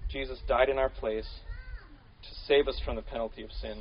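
calm dictation pace; slow dictation. Shown as a demonstration. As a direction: say it slowly so they can write it down. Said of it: "put it down in".

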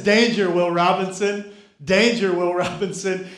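lightly voiced robot warning; a hint of a flat sci-fi robot. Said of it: "in his robot voice".

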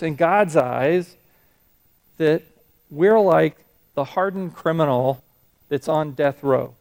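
retold preacher. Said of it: "the way he said this".

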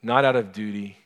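gentle spoken prayer. Acted. Leads closing prayer.

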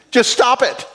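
high, laughing stop it; laughing repeat. Retold or imitated. Preacher laughing while repeating Newhart's line. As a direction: chuckle through the punchline. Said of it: "his advice to her as a counselor was".

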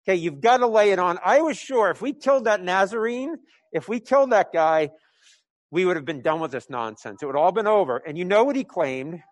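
a threatened ruler pushing his men harder, half panicked; angry scared leader. Acted. Threatened priest ordering harsher crackdown, angry and scared. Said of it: "high-pitched, angry, scared voice saying".

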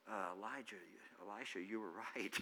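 hat in hand, eat your words gently; humbled Naaman. Acted. Naaman returning humbled to the prophet, soft sheepish admission.

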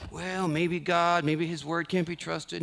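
slow, drawn-out mock hesitation; mock doubting. Preacher imitating a believer overthinking God's word, slowly doubting. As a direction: act out second-guessing, taking it slowly. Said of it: "Our job is not to hyperanalyze and go".

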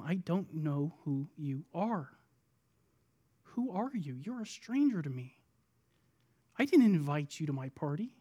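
quiet dismissal from the host; cool disowning. Acted. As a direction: speak low-volume, as to a stranger. Acts out bridegroom disowning the bridesmaids.

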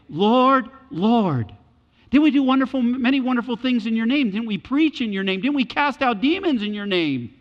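loud, high, desperate plea; pleading cry. Retold or imitated. False believers pleading with the Lord at judgment, loud and high. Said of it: "with incredible affection".

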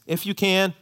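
"If you can" with a hesitant lift on "can", unsure of the answer; doubtful plea. Shown as a demonstration. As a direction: ask "If you can" as if doubting it will happen. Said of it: "and you hear the difference".

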